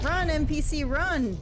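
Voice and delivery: 1 mock yell. Yelling warning at game NPC.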